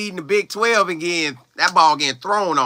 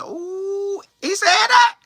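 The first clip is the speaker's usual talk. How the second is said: high squeaky ooh, much higher; can't believe what he's hearing; shocked disbelief; much slower than usual. Real, not acted. Player reacts to rival coach's boast, high and shocked.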